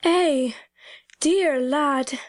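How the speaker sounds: tender country mother, slightly moved; tremulous endearment. A narrator's reading. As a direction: break out fondly, as if unplanned. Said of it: "she broke out tremulously".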